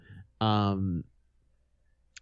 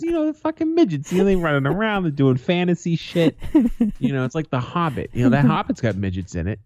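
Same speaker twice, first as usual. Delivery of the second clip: much higher, mock-earnest grandfather explaining; imitating grandfather; 6 semitones higher than usual. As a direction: play the old man lecturing on fantasy films. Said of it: "And he goes".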